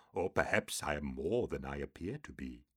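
low, hissing demon voice. A narrator's reading. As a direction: hiss it like an old demon. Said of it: "the second hissed".

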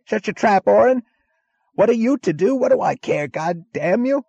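high, loud, raging snarl into the phone; enraged high-pitched shouting; furious snarling. A narrator's reading. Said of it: "his voice snarling into another receiver".

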